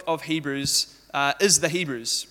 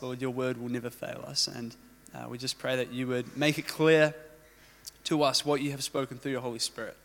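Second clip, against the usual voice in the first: low, softened prayer voice; 5 semitones lower, 5 dB quieter than usual. Real, not acted. Preacher praying before teaching Hebrews, low and soft prayer. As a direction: pray quietly, lowering to a hushed amen.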